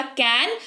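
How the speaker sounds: "कैन" held apart as one beat; isolated syllable. Shown as a demonstration. Teacher demonstrating an opened mouth, "कैन" as a lone syllable. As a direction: sound out "कैन" by itself. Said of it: "मतलब आपने मुंह खोला".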